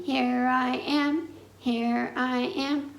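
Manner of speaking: lightly voiced piglet; piggy voice. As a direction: answer as the little pig. Piggy answers in game.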